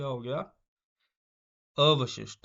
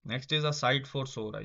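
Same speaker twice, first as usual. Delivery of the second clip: slow dictation; much slower than usual. Shown as a demonstration. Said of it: "teacher reads phrase slowly".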